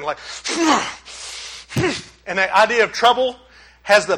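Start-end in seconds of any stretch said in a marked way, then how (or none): 0.2-0.9 snorting sniff. Shown as a demonstration. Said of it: "has the idea of snorting".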